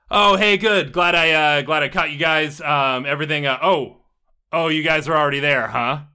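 lightly voiced casual dude caught off guard; casual rebellious dude. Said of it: "and he's like".

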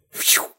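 quick airy whoosh; imitated arrow whoosh. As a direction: mimic an arrow whizzing past.

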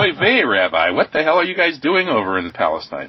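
high, loud mock Yiddish accent; joking Yiddish-accented rabbi question. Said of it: "Do you teach them a little Yiddish".

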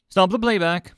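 loud, high, sharp order; snapped command. A narrator's reading. Kolch orders Five Clicks to halt the recording, snapping. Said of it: "he snapped".

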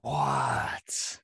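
breathy, unvoiced what of disbelief; astonished. Real, not acted. Guest hears who the host once interviewed, astonished. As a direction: let the surprise out mostly on breath. Reacting to surprising news.

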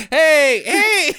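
high laughing mock shout; calling after the thief, high and laughing. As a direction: yell after them, laughing. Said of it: "calling after the fleeing thief".

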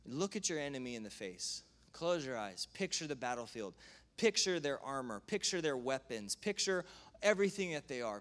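reassuring teacher, understated; calm guide. Retold or imitated. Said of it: "Graham Cooke says".

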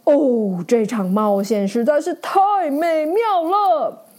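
thrilled, then asking a friend to stay; excited knight. Acted. Knight thanks the ferret, excited then heartfelt. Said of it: "骑士兴奋地说".

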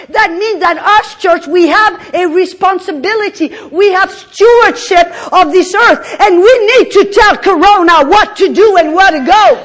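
loud, high excited preaching; hyped up, pushing hard from the pulpit; too much caffeine. Real, not acted. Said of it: "you get me excited".

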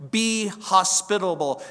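firm on "Be hospitable"; command stressed. Shown as a demonstration. Preacher quoting the command firmly. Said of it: "the command".

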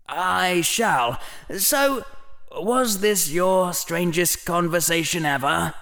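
a hint of a cheeky young boy. Harry voiced in dialogue.

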